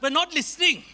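slightly British-sounding English accent; lightly British delivery. Real, not acted. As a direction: slip into a touch of British English. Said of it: "said that in a British accent".

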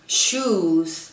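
"Shoes" drawn out into buzzed Z; final Z sound. Shown as a demonstration. Teacher giving an example, "Shoes" with final Z. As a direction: end "Shoes" on Z, not S. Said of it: "así se pronuncian con Z".

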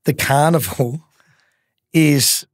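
my best for the carnival, slowed right down; slow, drawn-out tip. Shown as a demonstration. Host announcing his best tip, slow and deliberate. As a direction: stretch each word like a big announcement. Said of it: "Well, my best".

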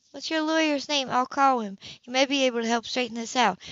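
a hint of a sister trying to help; Sybil, concerned. Sybil voiced higher than narration.

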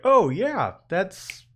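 pretend-impressed, easing back toward normal; mock enthusiasm. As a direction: gush as if ready to buy anything. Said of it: "I can't just be like".

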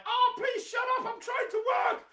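high, loud shouted complaint from a grown-up; annoyed adult. Retold or imitated. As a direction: play the fed-up adult yelling at noisy kids. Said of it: "and they're like".

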